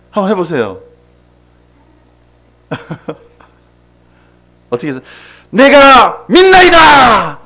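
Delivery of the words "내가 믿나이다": high, slow, full-throated cry of faith; desperate shout. Shown as a demonstration. Father crying out to Jesus to heal his son, desperate shout. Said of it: "하고 이렇게 소리 질렀겠죠".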